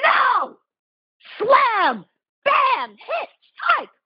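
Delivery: ferocious shout, very loud and high. Speaker warns listeners, then demonstrates ferocity in a physical fight; raised voice. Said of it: "I'm going to raise my voice for a second".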